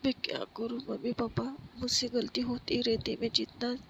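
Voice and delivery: a mild hint of crying out to lost parents; tearful plea. Pari on the terrace calling her dead parents, tearful plea. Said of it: "रोने लगती है ज़ोर-ज़ोर से".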